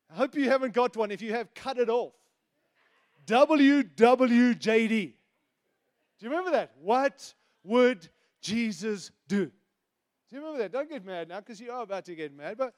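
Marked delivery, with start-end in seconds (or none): 3.3-5.1 W W J D spelled out slowly and loudly, letter by letter; 1 emphatic slow letters. Shown as a demonstration. Preacher spells the bracelet slogan to the crowd, slow and loud. 6.8-9.5 What would Jesus do? drawn out slowly, weight on would; 1 slow deliberate slogan. Shown as a demonstration. Preacher unpacks the slogan for the church, slow and deliberate.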